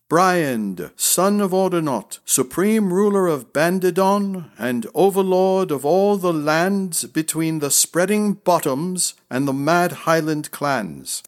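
high, ringing proclamation; strong, proud. A narrator's reading. Prince announcing his titles before the crowd, strong and proud. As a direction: declare your titles with strength and pride. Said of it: "voice filled with strength and pride".

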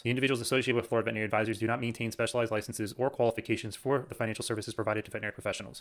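rapid compliance read-through; fast legal disclaimer. Acted. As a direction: rattle off the fine print quickly.

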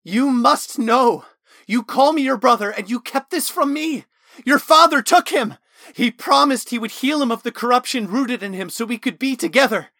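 furious, very high and loud accusations; manic shouting. Acted. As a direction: scream betrayal at his brother. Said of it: "Talon was manic in his questioning".

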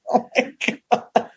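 slow breathless oh my God through laughter; laughing whisper. Retold or imitated. At the pony offer, a slow, laughing whispered oh my God. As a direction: gasp it out while laughing. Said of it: "I'm like".

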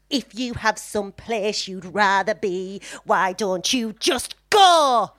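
slow, hammed-up sulky Dawson; mocking a sulky teen boy. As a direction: drag out his petulant line. Voicing Dawson's sulky line.

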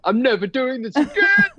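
high, emphatic mock wail; retold vow in labor. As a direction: exclaim it as a dramatised protest. Retold cry during labor.

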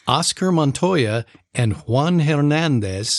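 put-on names in a Latino accent. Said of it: "you did that so well".

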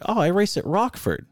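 high-pitched mocking answer; mimicked boast. Racer imitating where the driver says he races, mocking voice. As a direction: mimic his claim, voice lifted.

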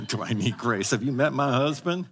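laughing mock wife; tease, with a laugh, as a weary wife; joking wife. Pastor voicing a wife joking about her husband.

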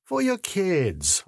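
high, slow, beaming offer; sincere beam. A narrator's reading. Seller handing dealers replicas for their children, beaming sincerely. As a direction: offer it slowly with a lifted, sincere smile. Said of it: "with my most sincere beam".

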